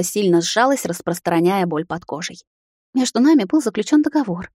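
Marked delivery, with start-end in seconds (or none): 2.9-4.5 frightened breathy. A narrator's reading. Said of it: "Испуганно дышала прислужница".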